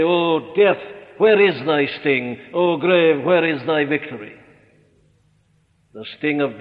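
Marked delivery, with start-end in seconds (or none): 0.0-2.4 triumphant challenge. Acted. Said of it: "challenge them and say". 2.5-4.3 defiant taunt of the grave, dropping back at the end; triumphant challenge. Acted. Preacher taunting the grave for his flock, defiant. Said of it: "challenge them and say".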